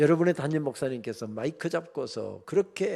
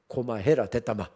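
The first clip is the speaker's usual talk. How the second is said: blunt Gyeongsang dialect dismissal; 4 semitones lower than usual. Retold or imitated. God answering Moses, curt Gyeongsang dialect. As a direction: brush him off in Gyeongsang dialect. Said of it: "경상도 말로 이렇게".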